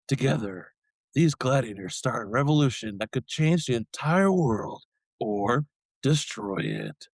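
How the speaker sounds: movie trailer narrator voice. Pretend. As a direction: read it like an epic film trailer. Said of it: "in our best, like, trailer voice guy".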